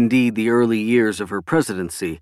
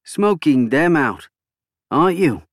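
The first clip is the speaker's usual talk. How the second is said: Cole, insistent politician; 6 semitones higher than usual. A narrator's reading. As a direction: draw it out as a pointed prompt.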